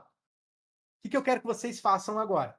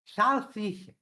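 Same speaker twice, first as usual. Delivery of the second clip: tongue-out demo word; slower than usual. Shown as a demonstration. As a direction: say it with the tongue stuck out. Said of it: "sem colocar a língua pra dentro da boca".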